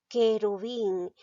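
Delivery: "querubín" sounded out carefully, the U silent; careful pronunciation. Shown as a demonstration. Teacher checking whether the U is pronounced, sounding out "querubín". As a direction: say "querubín" clearly as ke-ru-BIN. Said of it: "pronuncia la palabra".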